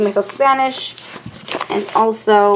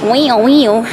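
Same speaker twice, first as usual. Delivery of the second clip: imitated crazy noise; 3 dB louder than usual. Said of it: "code word for crazy".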